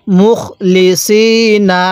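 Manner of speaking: slow মুখ লি সি না with a heavy Arabic S in সি; emphatic sad sound. Shown as a demonstration. Teacher shows the sad letter, careful slow recitation. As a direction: hold সি long with a full sad, not a light sin. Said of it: "সদকে সদের মতো করেই উচ্চারণ করতে হবে".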